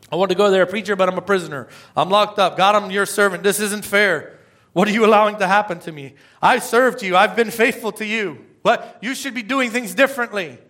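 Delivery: imitating a complaining prisoner; whining prisoner. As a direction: play the grumbling believer griping at God. Voicing a complaining prisoner to God.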